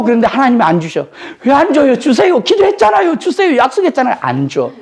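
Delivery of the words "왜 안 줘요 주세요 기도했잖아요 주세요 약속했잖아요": higher, begging voice asking God; pleading believer. Retold or imitated. Believer begs God for an unanswered prayer, pleading. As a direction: beg like someone who was promised.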